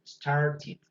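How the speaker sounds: "Started" said the British way with a crisp, clear T; British English "Started", sound the T fully. Shown as a demonstration. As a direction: give "Started" a British English accent, T sharp. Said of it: "diría un británico".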